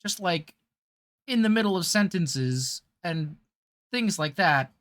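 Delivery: a mid-tier Walken, pausing in strange places; Christopher Walken impression. Shown as a demonstration. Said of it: "So kinda talking like this, it's, like, kinda like a New Yorker".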